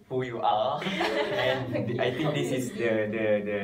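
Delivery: talking through a laugh; real laughter running under the words. Real, not acted. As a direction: laugh while admitting it. Laughing over awkward first meeting.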